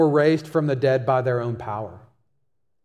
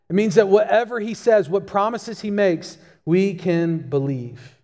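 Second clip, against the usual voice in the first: a preacher driving the point home; more urgent restatement; 4 semitones higher than usual. Real, not acted. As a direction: push the second take with rising conviction. Preacher repeats it with more force.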